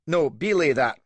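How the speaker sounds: loud, high "belay" falling; belay punched and dropped; angry countermand. A narrator's reading. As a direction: cancel the order in a rage. Countermands his order.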